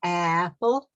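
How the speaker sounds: Apple said clearly to repeat; model word. Shown as a demonstration. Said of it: "Say it with me one more time".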